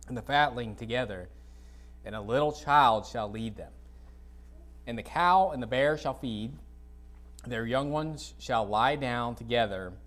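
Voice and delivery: measured, unhurried Bible reading aloud; scripture reading. Acted. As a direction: read the verses out to the congregation. Reads Isaiah aloud in sermon.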